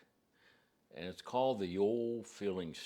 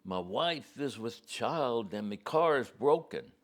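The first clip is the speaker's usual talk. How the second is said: put-on Scottish accent; 5 semitones higher, 6 dB louder than usual. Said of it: "he was over from Scotland".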